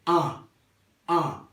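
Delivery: "A" as one nasal vowel, "an"; AN en criollo. Shown as a demonstration. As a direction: send "A" through the nose, no N. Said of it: "La A y la N". ("A" nasal, como "an" sin N)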